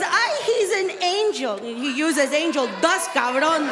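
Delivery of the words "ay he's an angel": doting mom. Retold or imitated. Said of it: "His mom says".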